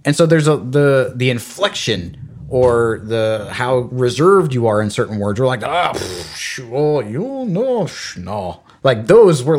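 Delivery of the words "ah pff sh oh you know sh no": French dismissive noises. Retold or imitated. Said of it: "these little sounds".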